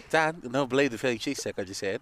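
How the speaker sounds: Boston attempt drifting toward Irish; soft Boston accent gone Irish; botched Boston accent. Telling dad about a cheesesteak in a botched Boston accent. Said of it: "You sound like Colin Farrell".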